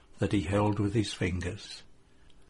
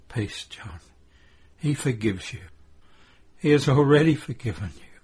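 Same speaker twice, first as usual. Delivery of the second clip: short, labored phrases with gaps; halting reassurance, as if short of breath; pauses, as if panting. A narrator's reading. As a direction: pause between each short sentence. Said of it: "Mary speaks with pauses between the short sentences, as if she were panting".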